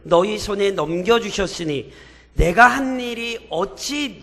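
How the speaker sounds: slow, measured reading aloud of scripture; congregational scripture reading. Acted. Pastor leading the church in reading Judges, solemn. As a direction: read the verses together, steady and solemn.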